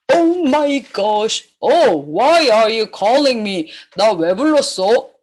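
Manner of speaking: low-voiced startled farmer; farmer role. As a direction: play the farmer, pitched well down. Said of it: "The farmer on the farm say".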